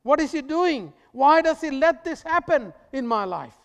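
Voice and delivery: loud, high, anguished cry to heaven; desperate asking. Acted. Suffering listener crying out to God, loud and anguished. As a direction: cry out as if abandoned. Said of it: "you are asking".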